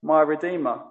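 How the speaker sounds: "my" stressed to make it personal; "my" picked out over "Redeemer". Shown as a demonstration. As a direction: lean warmly into the word "my". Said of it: "You can say".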